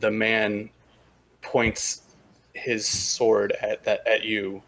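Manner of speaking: slow, deliberate narration with long pauses; game master's scene setting. Acted. Game master describing glimmering figures to players, slow suspenseful narration. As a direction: unveil the scene piece by piece.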